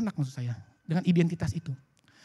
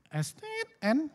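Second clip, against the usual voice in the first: muttered curse; 6 semitones higher, 5 dB quieter, much slower than usual. Retold or imitated. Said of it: "ngumpet-ngumpet ngomongnya".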